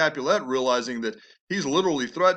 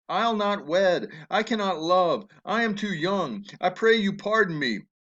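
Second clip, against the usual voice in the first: mock whining daughter; 5 semitones higher than usual. Father mimics his daughter whining.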